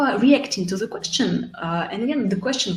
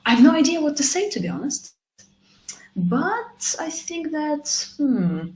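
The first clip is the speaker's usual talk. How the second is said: honest admission; 9 semitones higher than usual. Shown as a demonstration.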